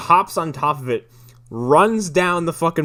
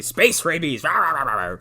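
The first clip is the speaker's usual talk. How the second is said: mock yell; 2 semitones higher than usual. Host retells Howard yelling at everybody, mock yell. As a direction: imitate a rabid rant without real volume. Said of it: "he starts yelling at everybody".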